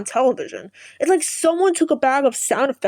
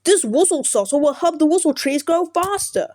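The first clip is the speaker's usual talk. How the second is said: put-on English accent; 4 semitones higher than usual. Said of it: "I'm gonna make impressions of the characters".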